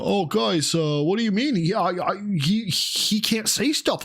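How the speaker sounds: high, whiny put-on protest; mocking whiny voice. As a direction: mimic a whiny streamer pleading. Mocking the banned streamer's whining.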